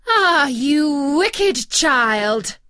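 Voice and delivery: put-on slow, loud, outraged old witch; furious cry. Enchantress scolding Rapunzel for her secret, furious slow cry. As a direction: bellow it out like a scorned enchantress. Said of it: "cried the enchantress".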